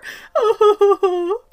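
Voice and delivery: high, loud burst of laughter. Real, not acted. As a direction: crack up laughing at the bit. Laughs at own impression.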